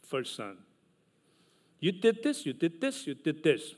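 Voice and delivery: a lightly voiced father tallying up misdeeds; stern father scolding. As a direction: list the kids' crimes like a strict dad counting them off. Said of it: "And he would say".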